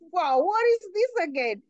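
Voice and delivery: reeling, asking how this can be happening; shocked confusion. Retold or imitated.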